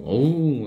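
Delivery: voiced imitation of a tiger's roar; a light mock roar; imitated tiger growl. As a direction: make a mild tiger call. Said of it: "호랑이 소리가 들리고".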